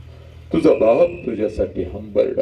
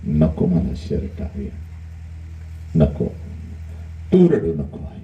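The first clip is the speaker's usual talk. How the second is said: son's tearful vow; slower than usual. Acted. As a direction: swear it through tears. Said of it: "आईला म्हणतं".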